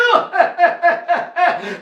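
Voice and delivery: acted laugh. Knight's laugh after his cry.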